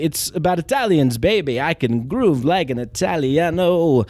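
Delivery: Christopher Walken. Retold or imitated. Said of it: "Christopher Walken wants to be".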